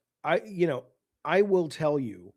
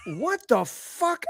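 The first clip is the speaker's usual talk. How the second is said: laughing; 8 semitones higher, much slower than usual. Real, not acted. Laughing at his own outrage.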